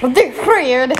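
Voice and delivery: mock Swedish accent. Mimics friend's bad accent attempt.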